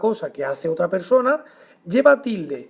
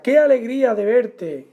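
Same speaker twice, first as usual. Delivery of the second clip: "Qué alegría de verte" as a higher exclamation; 4 semitones higher, 3 dB louder than usual. Shown as a demonstration. Teacher gives example of exclamative sentence, exclamation. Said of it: "oración exclamativa".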